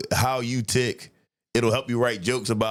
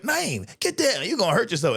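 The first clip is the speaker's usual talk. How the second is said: put-on worried girlfriend; 8 semitones higher than usual. Girlfriend warning him.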